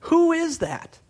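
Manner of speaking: Who is that, cried out high and loud; a sudden high exclamation; loud high cry. Acted. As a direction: call out the question in alarm. Preacher echoing the question loudly.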